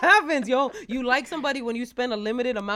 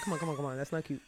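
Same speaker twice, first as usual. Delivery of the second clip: mock coaxing; 7 semitones lower, 8 dB quieter, faster than usual. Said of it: "I'll be like".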